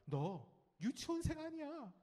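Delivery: hint of a nagging parent, slow and high. Parent to a new first-grader, nagging. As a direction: draw out the nag slowly. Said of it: "이 아이가 듣는 잔소리 뭔지 아세요?".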